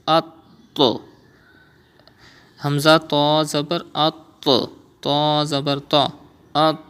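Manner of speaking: heavy qalqala on the to in at; with emphasis. Shown as a demonstration. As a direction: bounce the doubled t hard. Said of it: "read with emphasis, with stress, like this".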